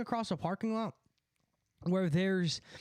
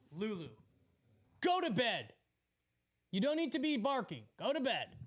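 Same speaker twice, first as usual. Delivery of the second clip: raised, firm voice telling the dog off; scolding the dog; 4 semitones higher than usual. Real, not acted. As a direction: shoo the dog to bed, higher and firm.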